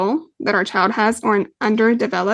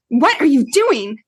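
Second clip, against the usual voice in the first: sharp, a bit louder, accusing; sharp accusing question; 4 semitones higher, 4 dB louder than usual. Retold or imitated. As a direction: snap the question at him like catching him out. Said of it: "If I say it just like that".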